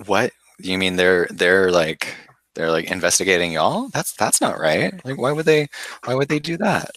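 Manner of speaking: high, rising shocked disbelief. Acted. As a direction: voice climbs high in outrage. Outraged disbelief at accusation.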